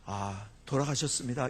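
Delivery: low, formal standard Korean; standard formal announcement. Shown as a demonstration. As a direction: announce a death in full polite form. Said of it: "이렇게 하는데".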